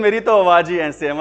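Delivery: hammed-up loud housewife; mock loud wife. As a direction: shout back like a wife who never lowers her voice. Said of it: "वो बोलती है जोर जोर से".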